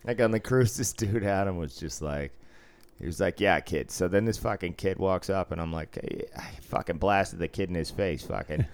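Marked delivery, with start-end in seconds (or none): 3.4-8.7 imitated Boston storyteller, broad accent. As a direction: retell it in thick Boston talk. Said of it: "that was very Boston".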